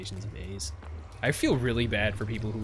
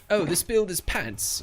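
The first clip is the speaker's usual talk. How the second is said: slow, higher mock British accent; imitating British accent; 9 semitones higher, 6 dB louder, slower than usual. Streamer mimics friend Mumbo's British accent to viewers, hammed-up. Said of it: "you know how he says everything is".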